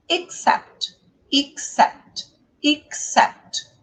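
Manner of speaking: "Except" with stress on the second syllable, cept; short "ik", then push "sept" in "Except"; teacher modelling "Except", weight after the first syllable; stress demo. Shown as a demonstration. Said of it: "A sílaba tônica é sempre a sílaba depois do apóstrofo".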